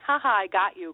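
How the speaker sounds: playful mock taunt of a card winner; teasing boy. Boy poking the daughter after winning at cards, mimicked teasing. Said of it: "he was poking her in the arm, saying".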